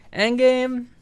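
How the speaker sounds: high, loud excited shout; excited squeal. Real, not acted. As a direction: squeal the title with glee. Squealed title, higher still.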